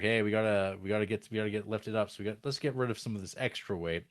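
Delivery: rushed, fast panicky crew; hurried crew voice. Retold or imitated. Crew rushing to dump weight, fast and mildly panicked. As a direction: blurt it out fast in a mild panic. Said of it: "so they're like".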